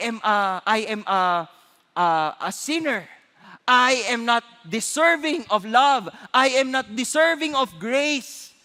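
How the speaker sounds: slow, heartfelt admission; sincere confession. Real, not acted. Preacher confessing unworthiness to the congregation, slow and sincere. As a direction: confess it slowly and humbly.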